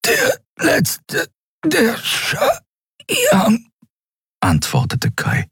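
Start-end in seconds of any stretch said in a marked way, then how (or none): 0.0-3.7 gepresst, hoch und stockend; nach Luft ringend. Acted. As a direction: ringe zwischen den Worten nach Atem. Gewürgter Kai ringt nach Luft. (atemlos gekeucht)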